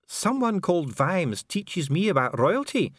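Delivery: high, slow, put-upon complaint; miserable. A narrator's reading. Dwarf official lectured on royalty, miserable. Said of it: "said Dee miserably".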